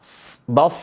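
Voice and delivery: "S, bas" with a long running hiss; sustained sibilant ending on "bas"; flowing sad. Shown as a demonstration. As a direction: let the s in "bas" flow on. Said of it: "Alirin aja suara shad".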